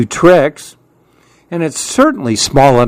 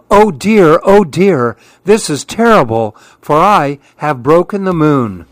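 dismayed; 3 semitones higher than usual. Acted. Monkey breaks the moon.

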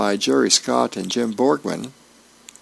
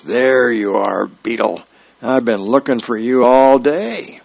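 mock yelling; 2 semitones higher, 5 dB louder than usual. Sergeant finally finding the soldier he hunted, mock yelling. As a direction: yell at a soldier, half-hearted, building louder. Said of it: "he's yelling at Beetle".

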